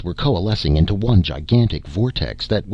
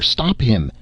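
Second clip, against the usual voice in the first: shriek; 5 semitones higher than usual. Acted. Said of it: "shrieked Lazar".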